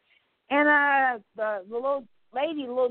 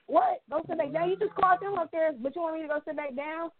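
much higher, incredulous mock-angry questions; indignant retold outburst; 6 semitones higher than usual. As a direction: replay your own disbelief at being sent back. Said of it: "and so I got real mad".

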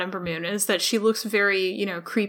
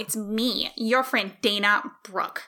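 Dana Brooke impression; slower than usual. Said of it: "can you do your Dana Brooke impression".

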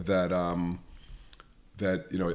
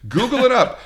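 high, bright-pitched playful call; playful high-pitched sign-off to listeners; catchphrase; 8 dB louder than usual. Acted. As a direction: sing it out as your catchphrase, up high. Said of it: "I like to say to our listeners".

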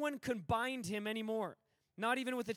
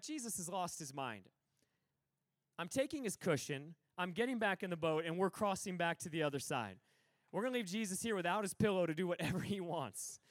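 low, grumbling imitation of a disciple; mock exasperation in a lower voice; fed-up disciple; 5 semitones lower than usual. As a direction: lightly act a follower who has had enough.

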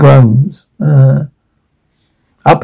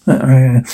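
short nasal snort; 3 semitones lower than usual. Acted. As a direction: snort through the nose. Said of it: "She snorts".

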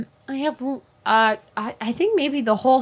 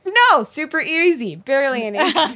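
Ryan George; 3 semitones higher than usual. Retold or imitated. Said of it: "being like Ryan George".

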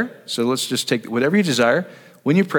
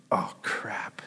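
mock dismay; 4 semitones lower, 13 dB quieter than usual. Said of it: "we're like".

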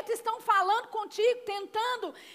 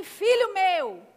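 slow read to repeat; much slower than usual. Shown as a demonstration. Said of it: "Diz assim".

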